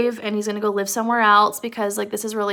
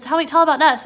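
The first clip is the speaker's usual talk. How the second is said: higher, loud eager prompting; Lenny urging; 5 semitones higher, 7 dB louder, faster than usual. Retold or imitated. Lenny asking George for their story, higher and eager. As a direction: imitate Lenny pressing for the story. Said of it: "Or Lenny says".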